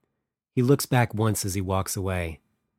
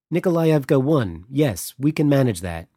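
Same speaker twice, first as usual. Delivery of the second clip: put-on thick French accent, pitched up; 5 semitones higher, 5 dB louder than usual. A narrator's reading. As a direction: speak with a heavy French accent. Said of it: "a voice with a thick but pleasant French accent".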